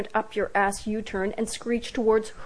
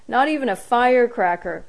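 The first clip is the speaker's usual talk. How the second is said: put-on piping child voice; 3 semitones higher, 6 dB louder than usual. A narrator's reading. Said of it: "piped in Marco".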